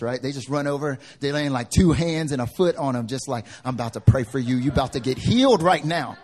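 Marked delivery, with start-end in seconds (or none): 3.6-6.2 mock overeager prayer warrior, with a laugh; zealous team member. Team member hyping up a sick person, mock zealous. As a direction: ham up a pushy newbie praying. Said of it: "they were hecka zealous".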